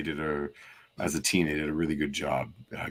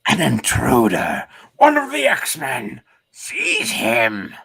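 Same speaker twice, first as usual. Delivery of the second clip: loud, commanding alarm call; shouting guard; 7 semitones higher, 10 dB louder, slower than usual. Acted. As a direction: bellow the order to seize him.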